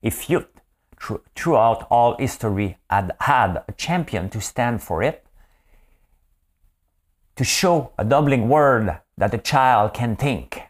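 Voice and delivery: slow, careful 1939-style English; old-time English accent. Shown as a demonstration. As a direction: attempt old-fashioned English, slowly and deliberately. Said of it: "j'essaie de parler comme l'anglais de mille neuf cent trente-neuf".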